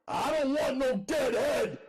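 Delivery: cruel shout, stress on "don't"; shouted taunt. Acted. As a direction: shout "I don't want no dead head" as a mean joke. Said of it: "then burst out laughing".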